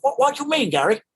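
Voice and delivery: Ferdinand Kingsley confused. Retold or imitated. Ferdinand voiced, puzzled.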